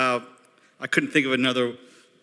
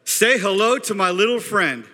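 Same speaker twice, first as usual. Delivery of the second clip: higher, emphatic movie line; movie quote; 4 semitones higher than usual. Acted. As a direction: deliver it like a big movie catchphrase. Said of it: "I'm gonna say a quote".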